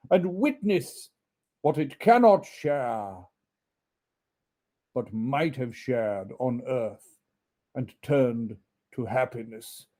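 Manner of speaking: slow, solemn, mournful ghost. Acted. Ghost warning Scrooge, slow and mournful. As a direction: lament his doom slowly.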